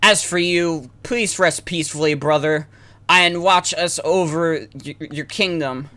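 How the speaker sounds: solemn farewell to a fallen brother; lightly voiced game hero. Reads game dialogue aloud.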